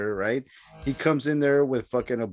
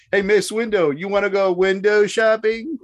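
higher, teasing villain voice; a hammed-up taunt, pitched up; mock Emperor taunt; 6 semitones higher, 3 dB louder than usual. Friend voicing the Emperor taunting Mace Windu, higher and teasing. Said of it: "He's like".

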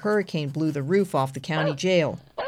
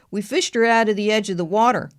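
country deputy voice; 4 semitones higher, 4 dB louder than usual. Acted. Deputy Frank answers.

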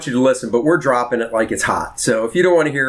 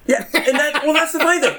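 laughing; 13 semitones higher than usual. Real, not acted. Laughing while starting a story.

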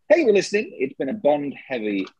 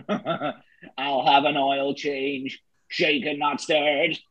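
robot voice; much slower than usual. Pretend. Robot Bond jokes.

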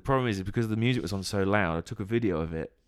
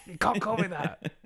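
laughing; 11 semitones higher than usual. Retold or imitated. Dad scolding daughter, laughing.

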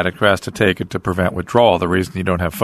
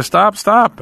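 emphatic loud stop; 11 semitones higher, 5 dB louder than usual. Real, not acted. Urges the addict to quit.

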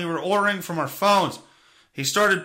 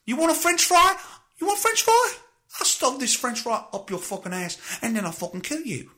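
unhinged security guard, higher and manic; imagined unhinged guard; 6 semitones higher than usual. Pretend. Comedian voicing guard threatening customers, manic higher voice. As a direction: play a deranged McDonald's guard threatening customers.

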